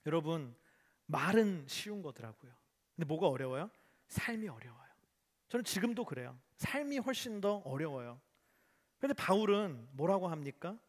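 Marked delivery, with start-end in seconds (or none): none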